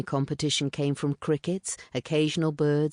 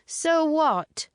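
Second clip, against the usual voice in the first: higher, louder defiant call; called back; 13 semitones higher, 4 dB louder than usual. A narrator's reading. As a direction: toss it back over your shoulder. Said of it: "she called back".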